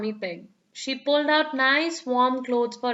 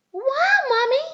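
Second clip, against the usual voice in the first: high, loud amazed cheer; 13 semitones higher, 4 dB louder than usual. A narrator's reading. The children cheer Mummy's pancake toss, high and excited. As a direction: gasp it out, wide-eyed. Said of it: "Peppa and George cheered".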